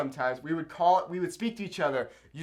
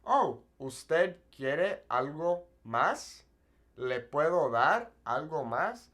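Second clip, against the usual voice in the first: polite customer service; slower than usual. Retold or imitated. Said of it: "I would say".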